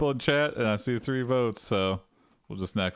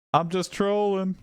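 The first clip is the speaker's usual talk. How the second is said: sheepish excuse; 7 semitones higher than usual. Acted. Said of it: "and say".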